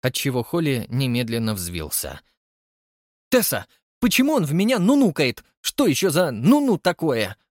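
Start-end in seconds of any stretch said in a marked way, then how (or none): 3.3-7.4 higher, louder outraged complaint; indignant whine. Acted. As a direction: bristle at the insult. Holly outraged at Frank. (возмущённо, громко и высоко)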